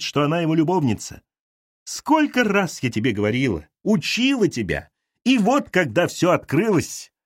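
put-on a meddling mother scolding her girl; bossy mother. Mother lectures her daughter. (мать поучает дочь, назидательно)

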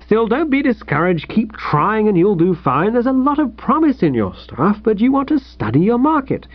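mildly paternal, lilting encouragement; kindly. Acted. Editor advises a rejected old pal, kindly. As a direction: let him down kindly, then cheer him on. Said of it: "he said kindly".

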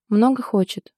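ordinary delivery

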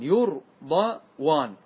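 يرضوان drawn out very slowly, each sound held; very slow, stretched. Shown as a demonstration. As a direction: stretch يرضوان so students hear the واو. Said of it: "انظر المثال عندك". (نطق ممطوط جدا لكلمة يرضوان)

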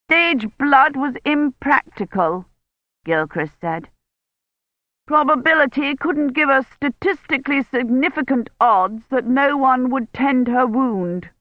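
mildly haughty official; lightly voiced officious Gilchrist. A narrator's reading. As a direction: stiff project head defending his plan.

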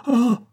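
high, loud cry of terror; terrible cry. Acted. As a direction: cry out in maternal anguish. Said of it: "jeta un cri terrible".

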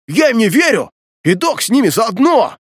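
high, strained desperate yell; anguished wail. A narrator's reading. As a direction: cry it out, voice tearing. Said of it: "Надрывно завопил Глист". (надрывный вопль, высоко и громко)

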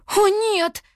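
high, loud gasp of dismay; sudden high alarmed cry. A narrator's reading. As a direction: realize the worst has happened. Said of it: "ахнула Туа".

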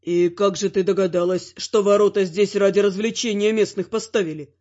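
a smug demon asking slyly; demon lord. A narrator's reading. Demon Shazgar speaks. (низкий лукавый голос демона Шазгара)

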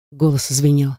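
ordinary delivery, nothing marked

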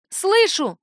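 high, loud yell back. Acted. Daughter yells back at her mother, loud and high. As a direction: shout it right in her face. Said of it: "заорала я на неё".

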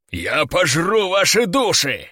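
slow, menacing demon boom. A narrator's reading. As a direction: rumble it out like a demon. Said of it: "пробасил демон".

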